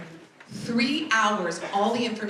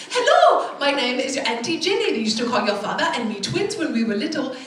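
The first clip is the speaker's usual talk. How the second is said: excited auntie; 3 semitones higher, 5 dB louder than usual. Retold or imitated. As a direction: welcome her like a delighted auntie. Auntie calling to welcome her.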